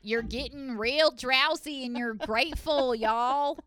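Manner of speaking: slow, drawled Southern guided meditation; mock Southern hypnosis voice. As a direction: soothe them down-home style, slowly. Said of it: "get a lady like this in America".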